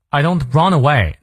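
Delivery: DON'T with a barely released T; light linked T. Shown as a demonstration. Teacher modelling don't for learners, light linked T. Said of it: "那个T连得很轻".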